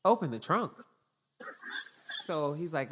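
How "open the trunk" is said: louder, higher retold command; aggressive officer. Officer demanding the driver open the trunk, aggressive. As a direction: insist on it as a pushy cop. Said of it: "Just aggressive the whole time".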